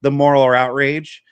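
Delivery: mock outrage. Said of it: "trying to act like".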